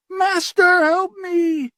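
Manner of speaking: very high, loud cry for help; anguished scream. Acted. Armand crying to his master from the flames, anguished scream. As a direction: scream for the master to save you.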